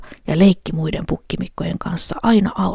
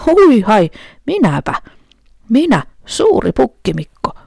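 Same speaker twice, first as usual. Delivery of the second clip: loud, higher bold goat call; big goat shouting; 6 semitones higher, 6 dB louder than usual. A narrator's reading. Big goat challenging the troll, loud boast. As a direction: boom out the big goat's boast. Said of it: "huusi pukki".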